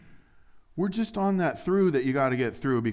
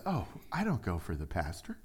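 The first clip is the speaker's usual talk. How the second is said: offhand reply; 6 semitones lower, 8 dB quieter than usual. Acted. Acted churchgoer shrugs off pastor.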